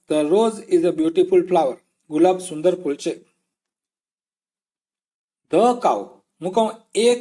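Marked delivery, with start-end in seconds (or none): 0.1-1.8 slow model sentence. Shown as a demonstration. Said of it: "The rose એટલે બધા".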